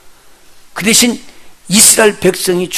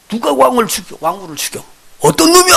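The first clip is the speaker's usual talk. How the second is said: higher, louder angry shout of a king; king's furious outburst; 9 semitones higher, 5 dB louder than usual. Retold or imitated. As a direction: roar like an outraged king. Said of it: "혈기내는 사람 아니야". (격노한 왕의 고함)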